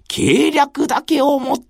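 put-on earnest young retainer wondering aloud; dreamy young samurai voice; young samurai musing.

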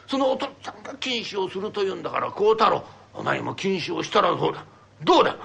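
a lightly voiced old father, coaxing and scolding; stern old father. Father urging his son to swear off sake, lightly voiced. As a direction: press the son gently to quit drinking. Father proposes they both quit.

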